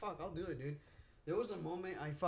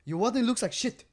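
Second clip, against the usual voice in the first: manager scolding; 8 semitones higher, 10 dB louder than usual. Retold or imitated. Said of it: "And like".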